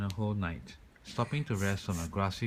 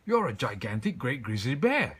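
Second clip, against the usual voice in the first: loud gruff shout; 5 semitones higher, 7 dB louder than usual. A narrator's reading. Chief of police to the bear, loud shout. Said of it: "shouted the chief of police".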